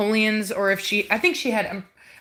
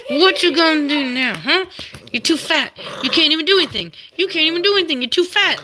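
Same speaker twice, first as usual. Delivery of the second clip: playful taunting; 7 semitones higher than usual. Real, not acted. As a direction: taunt the pinned puppy playfully. Teasing puppy pinned down.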